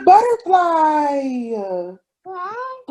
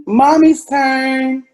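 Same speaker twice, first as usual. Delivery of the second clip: slow emphatic; 5 dB louder, much slower than usual. Real, not acted. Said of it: "make sure you say Mommy's turn".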